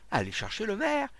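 high, loud urgent call; shouted order. A narrator's reading. Onlooker sending for the mayor, urgent shout. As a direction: send someone running.

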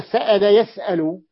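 سأل يسأل with a clear glottal stop in each word; hamza pronounced. Shown as a demonstration. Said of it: "بتحقيق الهمزة".

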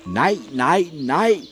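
high, loud cry of no; screaming no. A narrator's reading. Miriam cries out as the prophet is taken, loud. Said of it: "sig selv skrige".

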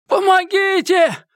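high, drawn-out cry for help; desperate high-pitched yell; screaming for help. A narrator's reading. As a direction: scream for the neighbours to hear. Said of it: "громко закричал Эдди".

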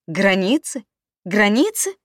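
high, loud sneering echo; mocking rage. A narrator's reading. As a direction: throw her word back, furious. Husband mocks her word, enraged.

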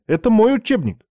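high, loud outraged cry; indignant shout. Acted. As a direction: yell it in outrage. Classroom quarrel over textbook.

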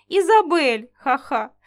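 loud name then chuckle; laughing. Acted. Grey tries to calm offended Isabel, laughing. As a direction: call her name still laughing.

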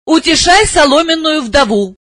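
high angry shout. A narrator's reading. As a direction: snap it at him in a high voice. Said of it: "крикнула она".

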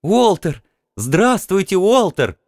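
high, eager female greeting; excited woman. A narrator's reading. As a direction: greet him with delight.

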